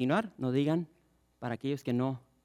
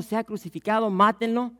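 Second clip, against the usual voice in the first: higher, louder mock crowd cry; mob shouting; 7 semitones higher, 6 dB louder than usual. Preacher acts out the crowd demanding death, louder and higher. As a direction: call it out like a jumping mob. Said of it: "brincando y gritando".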